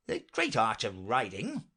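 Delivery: mildly declaimed; loud declaration. Acted. Knight suddenly begins lecturing, mildly declamatory loud voice. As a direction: proclaim it with understated force. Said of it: "began in a loud voice".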